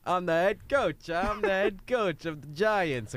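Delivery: coach voice. Acted. Coach character introduces himself.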